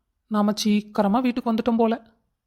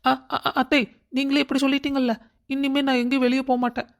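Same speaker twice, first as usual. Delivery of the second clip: fake crying; 3 semitones higher than usual. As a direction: sob it out theatrically to guilt her. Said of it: "அதுக்கு எதுக்கு நீ அழுவுற".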